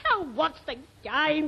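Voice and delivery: usual speaking voice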